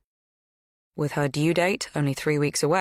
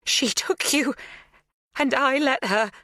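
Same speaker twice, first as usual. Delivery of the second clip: "She took you" higher and stronger, rising on "you"; louder; 10 semitones higher than usual. A narrator's reading. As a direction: push the voice up as it breaks through. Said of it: "Her voice is louder".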